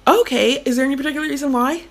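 lightly voiced, polite telemarketer; a fundraising caller working on a reluctant parent; role-played fundraiser. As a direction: stay sweet and keep pushing the pitch. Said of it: "Nice role play".

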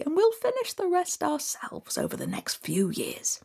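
fast, high eager persuasion; sly trickster. Acted. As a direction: talk him round quickly. Loki persuading quickly.

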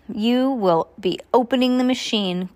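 lightly voiced foreman giving an order; mandona. A narrator's reading.

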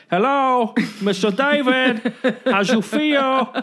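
drawn-out, laughing Latino accent imitation; Latino accent quote. Larry coaching the handyman, slow Latino accent. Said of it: "that's how the guy speaks".

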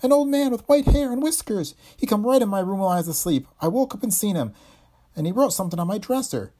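high loud breathless panic; terrified gasp. Acted. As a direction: gasp it out, scared stiff. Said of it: "she gasped".

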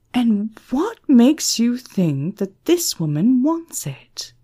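hushed, menacing question; quiet anger. Acted. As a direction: whisper it with cold fury. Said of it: "She was feeling angry now".

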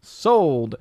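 high, rapid auctioneer patter. Pretend. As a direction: rattle off bids like an auctioneer. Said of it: "An auctioneer voice".

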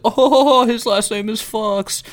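high, slow laughing mock voice; mock dumb fans. Mocking fans laughing at a player's surname. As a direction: play a fan giggling at a name. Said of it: "they were like".

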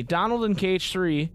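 lightly done duck voice; a light try at Donald's voice. Retold or imitated. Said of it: "you sounded just like him".

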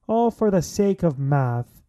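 playful, drawn-out Irish lilt; mock Irish accent. Host riffing on the sake of math, mock Irish accent. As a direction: repeat it in a bad Irish accent. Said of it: "it sounded like an Irish".

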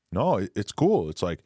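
lightly put-on Canadian accent, slow drawn-out ending; a hint of a goofy Canadian accent, stretching out cute cartoons; mock Canadian Logan Paul. Mocking Logan Paul's defense of a scam NFT in a half-done Canadian accent. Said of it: "Why am I doing a stupid Canadian accent?".

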